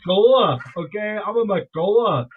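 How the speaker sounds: loud put-on Scottish accent. Speaker claiming his Scottish clan name, mock Scottish accent. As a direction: roll it out proudly in mock Scottish. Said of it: "motherland of Scotland".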